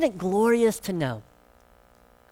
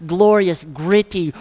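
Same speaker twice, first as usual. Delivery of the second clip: normal talking voice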